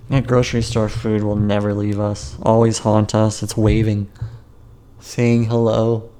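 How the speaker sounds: ordinary talk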